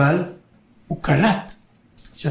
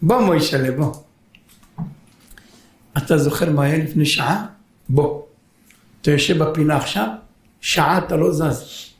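gentle father. Acted. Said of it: "הוא כזה חמוד".

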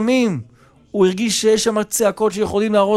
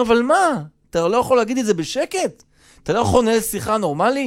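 raised pitch, rapid protest; exasperated appeal; 4 semitones higher, faster than usual. Retold or imitated. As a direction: plead impatiently, pitch up. Host pleads for normal talk.

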